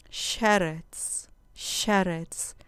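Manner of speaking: "Sheretz" said SHE-retz, stress on the first syllable. Shown as a demonstration. Teacher models Hebrew "Sheretz" for students, stress on SHE. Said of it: "con acento en la penúltima sílaba".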